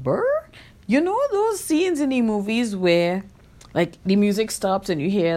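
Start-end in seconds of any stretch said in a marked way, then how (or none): 0.0-0.2 record scratch noise. Retold or imitated. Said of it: "that D J sound effect".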